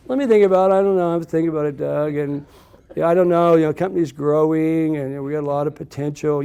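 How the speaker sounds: playing it cool, pretending to weigh it up; feigned hesitation. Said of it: "You know, I'm actually saying yes, right?".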